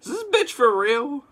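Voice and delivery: a soldier scoffing at the prisoner; incredulous soldier. Retold or imitated. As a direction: sneer it like a rude soldier. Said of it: "one of the Commonwealth guys says".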